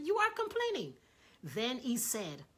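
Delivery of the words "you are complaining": high, loud correction; emphatic rebuke. Retold or imitated. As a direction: hammer the rebuke home. Repeats God's rebuke.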